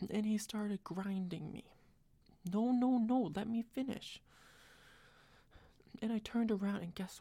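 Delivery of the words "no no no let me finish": mock protest. Playfully cutting off listener again.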